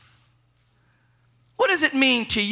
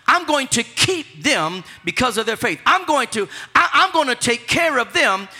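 God's promise preached; 3 semitones higher than usual. Acted. Preacher voicing God's promise to the faithful, fervent. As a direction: build it up with fervor.

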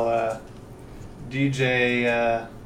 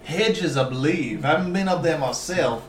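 put-on southern accent. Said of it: "Stop doing the southern accent".

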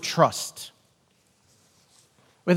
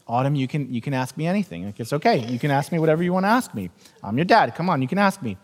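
reassuring dad; 4 semitones lower, 4 dB quieter, faster than usual. Retold or imitated. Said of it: "I'm like".

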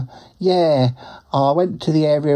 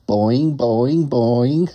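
springy imitated bouncing, each rising; kangaroo boing noise; much slower than usual. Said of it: "they actually make that sound too".

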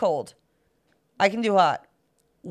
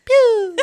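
gun pew sound; 11 semitones higher, 3 dB louder than usual. Retold or imitated. Imitating an old gun firing.

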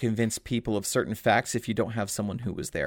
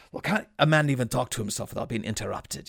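quick, lightly voiced grumble in the actor's manner; Robbie Coltrane impression; faster than usual. Fan quoting the actor's film line, a light impression. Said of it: "it's so very Robbie Coltrane".

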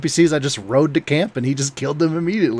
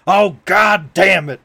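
slow mock yell as Cripps; a hint of a gruff cowboy yelling; retold yell; 5 semitones higher, 5 dB louder, slower than usual. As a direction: drawl it out like a cowboy cursing. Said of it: "I just hear Cripps yell".

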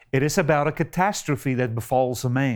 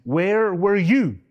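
higher-pitched, indignant mock challenge; livid; 4 semitones higher than usual. God belittling Job, retold livid challenge. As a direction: demand it like an affronted God. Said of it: "God was livid".

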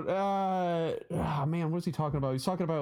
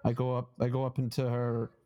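comedian's Boston accent, imitated; thick Boston accent; 2 semitones lower than usual. Retelling a comedian's hoarder bit in a Boston accent. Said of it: "he's got a really thick Boston accent".

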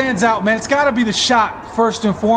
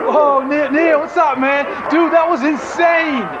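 frat bro; 4 semitones higher than usual. Pretend. Hyped post-game interview role.

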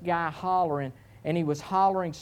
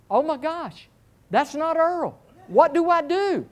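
panicked inner thought; 10 semitones higher, 4 dB louder than usual. Retold or imitated. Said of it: "I'm like".

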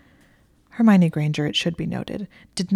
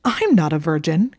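"I'm not a virgin" snapped back louder, pitch level; snapped retort; 6 dB louder than usual. Acted. Draco insisting to Hermione, snapped indignant retort. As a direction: bite the words back at her. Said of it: "he snapped back".

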